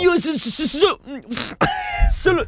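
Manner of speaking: high, stuttering comic character voice; imitazione di Johnny Glamour. Acted. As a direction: stumble on the first syllable in a high pitch. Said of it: "Ti viene bene". (imitazione acuta e balbettante)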